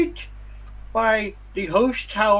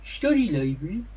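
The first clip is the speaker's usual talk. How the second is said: helpful townsperson. Acted. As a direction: play a helpful local with a mouthful of teeth, pitched up. Game master voices a townsperson.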